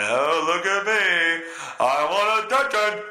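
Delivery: lightly voiced show-off, slow and singsong; a touch of a needy show-off, sung out; mock attention seeker. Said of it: "I don't think he talks like that".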